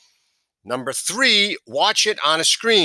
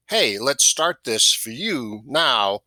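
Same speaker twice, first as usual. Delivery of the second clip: slow, with "Hey" set off and a short pause before "now"; trial phrasing; 3 semitones lower, slower than usual. Shown as a demonstration. Sales trainer offering a variant in your own voice, slow and easy. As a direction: stretch "Hey, let's start this for you", then land on "now". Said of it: "However it works in your voice".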